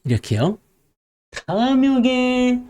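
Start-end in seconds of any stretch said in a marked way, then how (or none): 1.3-2.6 slow, drawn-out greedy voice; hammed-up greed; greedy eyes. Shown as a demonstration. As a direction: stretch it out like a hungry gaze. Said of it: "눈빛이 바로 이렇게".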